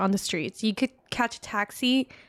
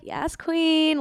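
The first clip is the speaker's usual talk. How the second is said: loud cheer; 6 semitones higher than usual. Pretend. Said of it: "like, out loud".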